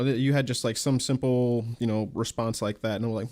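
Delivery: ordinary delivery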